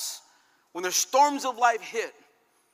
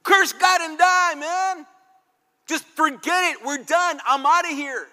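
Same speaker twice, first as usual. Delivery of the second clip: higher, louder bitter outcry of a grieving wife; despairing wife; 7 semitones higher, 7 dB louder than usual. Retold or imitated. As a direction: throw it back at him, raw and fed up. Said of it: "she's crying and weeping".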